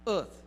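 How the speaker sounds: "earth" said alone, framed by pauses; stress on earth. Real, not acted. Speaker asking listeners to attend to one word, "earth" stressed. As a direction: set "earth" apart as a single weighty word. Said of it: "I want to stress this word".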